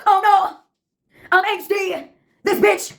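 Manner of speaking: put-on high-pitched theater-kid outburst; theatrical scream. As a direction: play it like a melodramatic musical chorus. Recurring theater-kid chorus.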